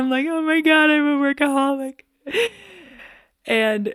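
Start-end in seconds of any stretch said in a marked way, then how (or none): 0.3-2.0 mock very high, loud, bursting-into-tears cry. Retelling the moment she burst into tears, retelling bursting into tears. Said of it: "I just burst into tears".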